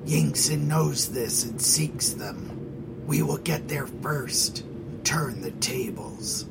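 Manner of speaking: hushed, secretive whisper. Acted. Scarab explains his plan.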